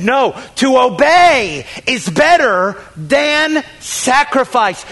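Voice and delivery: emphatic, drawn-out retort; fed-up rebuke. Retold or imitated. Samuel answering Saul's excuses, fed up. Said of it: "Samuel had enough".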